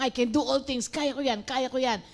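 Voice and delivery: imitating someone boasting they can do it all alone; mock cocky boast. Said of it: "Namamali po tayo ng".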